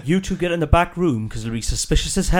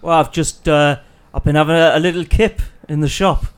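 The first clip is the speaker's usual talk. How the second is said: character voice. Acted. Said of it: "your personality totally changes with your voice".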